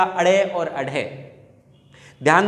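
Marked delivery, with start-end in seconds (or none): 0.0-1.2 अड़े और अढे said slowly with a flapped tongue. Shown as a demonstration. Teacher models the dotted letters, slow flapped अड़े और अढे. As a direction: draw out अड़े, then अढे, each opening on a short "a". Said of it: "इसका उच्चारण क्या हो जाएगा".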